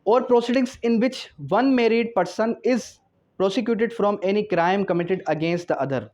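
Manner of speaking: slow, measured reading of the law text; slow statute dictation. Shown as a demonstration. Teacher dictating the article to law students, slow and measured. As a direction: read each legal phrase slowly for students to note down.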